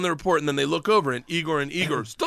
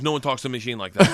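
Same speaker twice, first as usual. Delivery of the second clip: gangster warning; 7 semitones lower, faster than usual. Retold or imitated. Gangster defends his friend to teacher.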